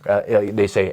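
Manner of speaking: ordinary delivery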